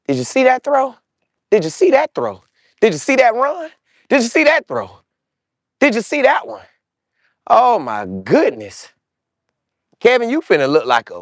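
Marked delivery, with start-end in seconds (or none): 0.1-6.6 excited, higher repeated questions; hyped questions. Real, not acted. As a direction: keep firing the question, amazed. Hyped rhetorical replay questions.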